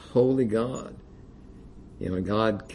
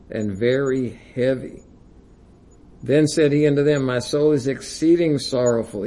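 scripture reading. Acted. Preacher reading Gethsemane to the congregation, fervent scripture reading. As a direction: read the passage with rising intensity. Preacher reads Matthew twenty-six aloud.

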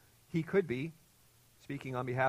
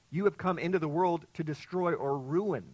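forceful; 5 semitones higher, 6 dB louder than usual. Retold or imitated. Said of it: "It could be more forceful as".

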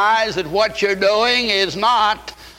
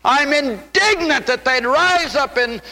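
building higher with each repeat; rising indignation; 5 semitones higher than usual. Acted. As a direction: climb in pitch line by line, indignant. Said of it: "he said".

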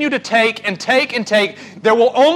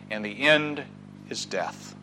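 grave whispered close; hushed ending; 10 semitones lower, 12 dB quieter than usual. Acted. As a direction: sink to a near hush on death. Preacher's dramatic ending.

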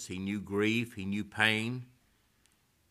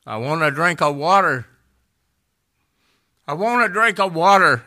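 louder, higher calling out from the hall; retold plea; 9 semitones higher, 16 dB louder than usual. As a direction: imitate the old lady calling for water.

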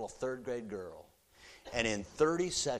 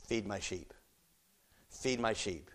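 1 tender command; 2 semitones lower, 3 dB quieter than usual. Acted. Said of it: "And the Lord says this".

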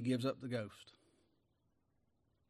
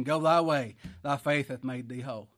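loud command; 6 dB louder than usual. Acted. Jesus's command in sermon.

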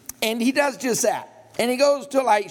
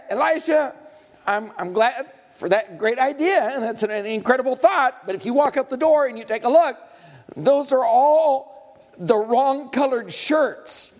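agitated servant; 3 semitones higher than usual. Acted. Servant urgently arguing with Elisha about the army, rising agitation.

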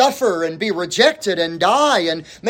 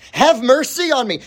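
higher-pitched plea, not shouted; crying out; 5 semitones higher than usual. Acted. Shameless woman calling to Jesus, crying out. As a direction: cry for mercy with raised pitch. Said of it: "She cried out".

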